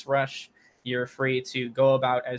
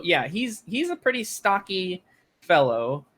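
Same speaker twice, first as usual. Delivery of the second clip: ordinary delivery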